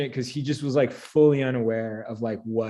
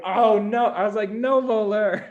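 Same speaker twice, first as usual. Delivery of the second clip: much higher, panicked no; panicked denial; 9 semitones higher, 4 dB louder than usual. Retold or imitated. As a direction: squeak out your innocence.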